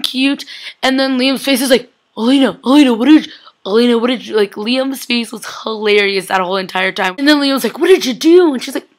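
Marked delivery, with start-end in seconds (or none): 2.2-4.3 panicked Liam. Retold or imitated. Acts Liam's panicked face. 7.8-8.5 higher, louder mock alarm; shocked demand. Liam confronting Elena, retold with shock.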